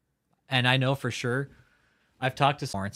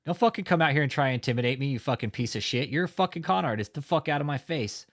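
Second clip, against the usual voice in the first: retold yell; 4 semitones higher than usual. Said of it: "I told him, like".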